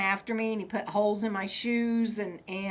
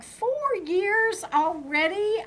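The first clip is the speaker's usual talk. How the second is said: surprised; 10 semitones higher than usual. Retold or imitated. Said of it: "I was like".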